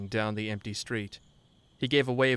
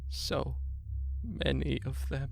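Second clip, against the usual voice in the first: higher, soft broken whine; whining; 4 semitones higher, 3 dB quieter, slower than usual. A narrator's reading. Grieving husband whining from the stoop, broken. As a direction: whimper it from the stoop. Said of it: "high-pitched, throaty whine".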